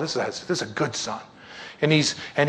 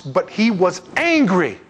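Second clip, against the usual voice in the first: slow, higher-pitched stress on angry; emphatic reading; 4 semitones higher, 3 dB louder, slower than usual. A narrator's reading. Preacher reads the older brother's response, emphatic. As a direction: draw the verse out for weight.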